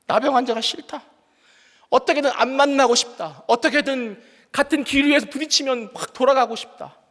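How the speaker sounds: mildly angry retelling of wanting nothing to do with someone; angry aversion. Retold or imitated. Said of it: "이런 화가 팍".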